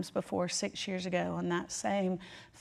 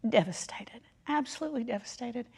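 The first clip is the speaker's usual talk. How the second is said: breaking up; 4 semitones higher than usual. Real, not acted. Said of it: "I was".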